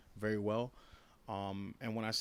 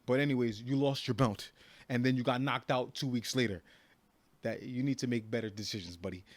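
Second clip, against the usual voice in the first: louder, taunting jab at a rival; calling out; 5 dB louder than usual. Real, not acted. Fighter taunting Bisping through the camera, loud mocking call-out. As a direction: raise the volume and rub it in.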